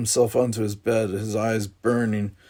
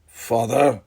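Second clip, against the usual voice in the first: angry protest; 5 dB louder than usual. Acted. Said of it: "anger hot in his voice".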